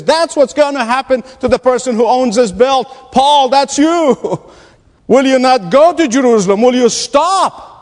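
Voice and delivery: dramatic warning. Retold or imitated. Prophet warns the Apostle Paul about Jerusalem, dramatic warning. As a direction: warn him dramatically, drawing out the final plea. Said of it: "in a most dramatic way".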